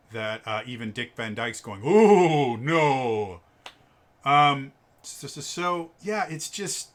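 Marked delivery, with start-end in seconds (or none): 1.9-3.4 loud, hammed-up bad Cockney wail; butchered Cockney. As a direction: wail it out in a terrible Cockney accent. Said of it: "people butcher a Cockney accent so bad".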